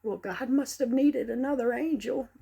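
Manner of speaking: quoting a mourner. Retold or imitated. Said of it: "I heard someone say".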